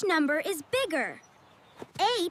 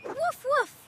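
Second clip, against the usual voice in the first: dog bark; 7 semitones higher than usual. Retold or imitated. Dog answers in the lesson.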